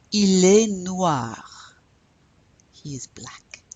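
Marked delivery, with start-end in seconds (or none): 0.1-1.8 slow model sentence. Shown as a demonstration.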